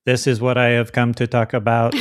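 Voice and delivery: stiff, wooden robot delivery. Acted. Mocking a speaker standing up there all wooden, lightly robotic. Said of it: "like a robot kinda thing".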